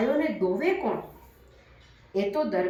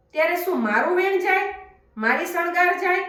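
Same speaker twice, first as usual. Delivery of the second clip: a ruler's word at stake, higher and faster; agitated cry; 7 semitones higher, faster than usual. A narrator's reading. Darbar exclaims, agitated. (દરબારનો ઊંચો, ઝડપી, ઉશ્કેરાયેલો અવાજ)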